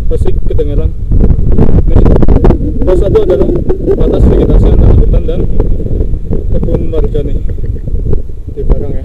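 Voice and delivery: shouting over wind. Real, not acted. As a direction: call out loudly against the gusts. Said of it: "Di sini anginnya besar banget ya. Pasti kedengeran".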